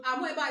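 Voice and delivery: amoeba said a-mo-E-ba, O and E both sounded; wrong pronunciation. Shown as a demonstration. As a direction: say amoeba as it is written, a-mo-eh-ba. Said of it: "is not the right pronunciation".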